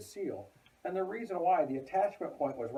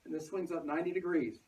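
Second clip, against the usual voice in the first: muffled behind a mask; through a face mask; 4 semitones higher than usual. Real, not acted. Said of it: "I'm talking through the mask".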